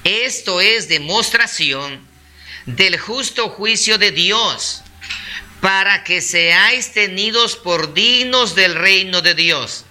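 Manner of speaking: solemnly paced scripture, with pauses between phrases; deliberate Bible recitation; slow, calm reading. Real, not acted. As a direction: read it out slowly, phrase by phrase. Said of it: "es leerlo despacio, calmado".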